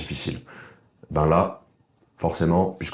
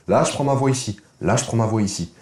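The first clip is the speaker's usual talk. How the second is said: higher, thin voice from the head; 4 semitones higher than usual. Shown as a demonstration. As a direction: sound like a boy before his voice broke. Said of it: "On dirait un prépubère". (voix haute de prépubère)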